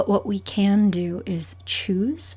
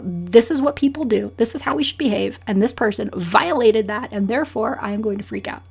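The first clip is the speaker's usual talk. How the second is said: indignant; 2 semitones higher, 5 dB louder, faster than usual. Acted. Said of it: "their indignation and their protest".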